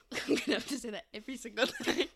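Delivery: laughing. Real, not acted. Laughing reminder.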